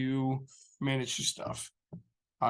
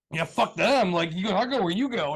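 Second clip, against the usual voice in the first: fired-up contractor; 4 semitones higher, 3 dB louder than usual. Retold or imitated. Quoting loyal contractor, excited.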